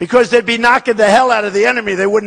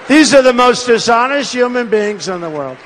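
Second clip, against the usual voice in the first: shouting at the press; 3 semitones higher than usual. Real, not acted. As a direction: bellow the charge at the cameras. Attacking the dishonest press.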